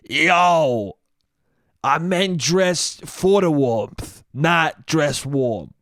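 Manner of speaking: lightly mocked Italian annoyance, slow and emphatic; angry Italian girlfriend. Italian girlfriend corrects her nitpicking boyfriend, mock angry. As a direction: spell it out slowly as an annoyed Italian. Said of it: "suddenly Italian and angry and annoyed".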